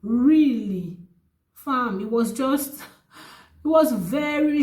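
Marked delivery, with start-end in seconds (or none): 0.0-1.0 slow, high-pitched incredulity; retold disbelief. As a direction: stretch it out in disbelief. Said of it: "I was like".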